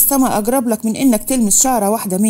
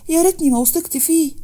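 "ريتني" pushed much higher, near breaking; rising tearful wail; 6 semitones higher than usual. Acted. Manal regretting trusting Fahd, tearful wail. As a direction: let "يا ريتني" climb into a cry. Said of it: "اتكلمت منال بدموع".

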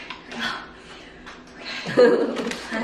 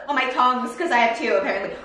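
laughing; 3 semitones higher, 3 dB louder, faster than usual. Real, not acted. Laughing at her own slip.

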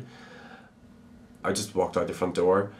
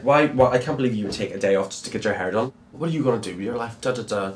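mild angry scolding, rattled off fast; retold angry mum; 3 semitones higher, 4 dB louder, faster than usual. Mum scolding her child for skipping school, mildly angry and fast. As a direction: imitate a cross mum, quick questions after a loud start. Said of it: "she was so angry".

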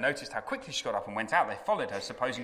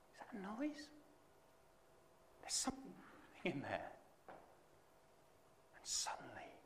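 suspenseful hush; 2 semitones higher, 9 dB quieter than usual. Acted. Preacher hushing the church before Lazarus appears, whispered. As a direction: draw them in breathlessly.

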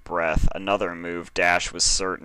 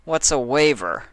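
higher, wary question; suspicious Dash; 7 semitones higher, 4 dB louder than usual. A narrator's reading. Dash eyeing the waiver form, high and wary. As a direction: squint at the word, pitched up.

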